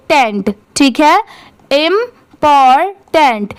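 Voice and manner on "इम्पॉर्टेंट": slow. Shown as a demonstration. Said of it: "अब इसे speed में पढ़ेंगे".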